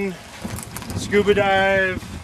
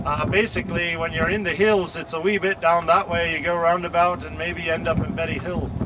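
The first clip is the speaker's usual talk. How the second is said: put-on Scottish accent. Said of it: "that's the best Scottish accent I got".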